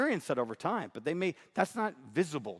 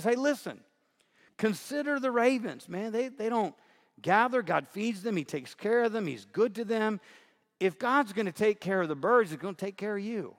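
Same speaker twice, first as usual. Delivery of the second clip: higher, lightly voiced buddy-style Jesus; casual paraphrase of Jesus; 5 semitones higher than usual. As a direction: retell the verse like a friend talking, "consider the ravens, man". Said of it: "He says".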